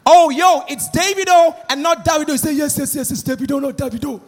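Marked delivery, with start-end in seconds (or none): 0.1-2.3 imitated American host accent; mock American accent, loud start; American interviewer. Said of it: "So the interviewer was like". 2.5-4.2 imitated fake American accent; mock Yankee accent, insisting on the name; a singer. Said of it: "they get foreign accent all of a sudden".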